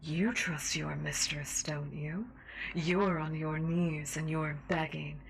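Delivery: menacing seductive host voice; sinister mistress. Acted. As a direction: taunt him like a cruel mistress. Sinister radio host role.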